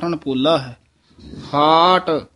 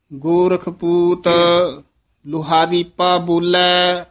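careful recitation. Shown as a demonstration. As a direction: recite ਲੁਹਾਰੀਪਾ as one flowing word. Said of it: "ਇਹ ਧਿਆਨ ਨਾਲ ਪਾਠ ਉਚਾਰਨ ਕਰਨਾ ਹੈ".

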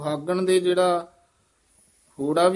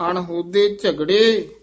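ਝਗੜੇ falling into a short halt; brief pause after ਝਗੜੇ; 6 dB louder, slower than usual. Shown as a demonstration. Teacher marking for students a short halt after ਝਗੜੇ. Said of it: "ਇੱਥੇ ਠਮਕ".

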